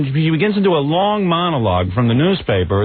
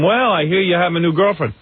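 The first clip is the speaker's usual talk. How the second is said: lightly imitated chirpy interviewer, higher; Rosie O'Donnell; 4 semitones higher than usual. Imitated host asking guest about a new girlfriend, higher and eager. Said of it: "like she says to him".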